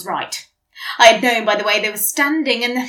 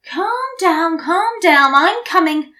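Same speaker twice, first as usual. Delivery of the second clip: grumpily; 2 semitones higher than usual. Acted. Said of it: "I replied grumpily".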